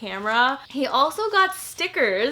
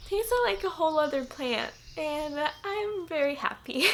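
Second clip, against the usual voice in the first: high, soft, tearful voice; happy tears breaking through; teary; 4 semitones higher, 5 dB quieter than usual. Real, not acted. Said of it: "Hao, you made me cry".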